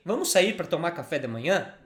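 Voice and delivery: rising question tune on "Vamos sair para tomar café da manhã?"; question intonation. Shown as a demonstration. Teacher showing a learner how to ask, rising tune. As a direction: turn it into a question with a rise at the end. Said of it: "change your intonation and say".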